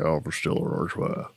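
whispered low impression; low whispered Dude. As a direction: breathe it low and quiet. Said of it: "you're doing Jeff Bridges there".

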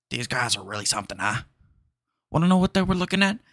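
mutter, then burst out shouting the question; Al Pacino impression. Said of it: "He goes".

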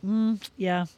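quiet, dropping away at the end; holding back tears. Retold or imitated. Woman to a concerned girl at the gym, holding back tears. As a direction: hold it together, barely able to talk. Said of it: "I was just gonna lose it".

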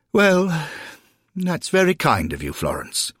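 high, courteous voice dropping at the end; polite gentleman newcomer. Acted. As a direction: thank her with hesitant courtesy. Polite newcomer thanks the lady.

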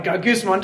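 "Gagusmon" said as GAH-goos-mon with a murmuring growl; "Gagusmon" sounded out for the church as a complaint; grumbly Greek word. Shown as a demonstration. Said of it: "Doesn't that even sound like you're grumbling".

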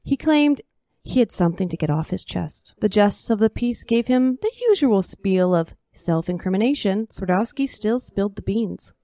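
put-on lively old-time storyteller voice; story narration. A narrator's reading. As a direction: tell it like a tall cowboy tale.

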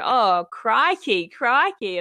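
drawn-out Australian catchphrase imitation; mock Australian accent. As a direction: imitate someone mocking an Australian accent, slowly. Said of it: "comes with mocking our accent".

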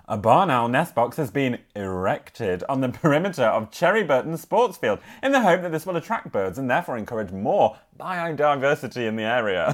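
measured village bulletin reading; local news read. Acted. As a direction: read out a parish news item. Reads local news item aloud.

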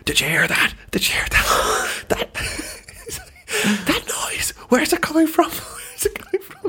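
panicked high whisper, laughing; frantic whisper. Retold or imitated. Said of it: "the guy next door going".

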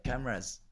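"Cameras" with the pitch falling; important-sounding cameras. Retold or imitated. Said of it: "'Cause they sound important".

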